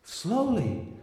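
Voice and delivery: soft, breathy-free hush of a lover; hushed slowly. Retold or imitated. Lover urging him to slow down, hushed. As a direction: say it softly, drawing it out. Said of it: "she says".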